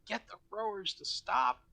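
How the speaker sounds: yelling out. Acted. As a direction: yell it up from below the ship. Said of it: "I'll yell out".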